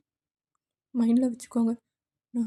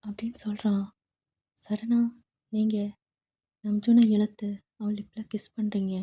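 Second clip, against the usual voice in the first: whispered narration; 3 semitones lower than usual. A narrator's reading. Narrator telling the listener the story, in a whisper. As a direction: breathe the story into the listener's ear.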